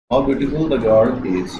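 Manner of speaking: very slow, words drawn out; slow dictation of the exclamation; slow read-aloud. Shown as a demonstration. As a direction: read the exclamation slowly for copying. Teacher reads quoted exclamation.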